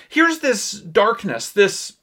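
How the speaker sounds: ordinary talk, nothing marked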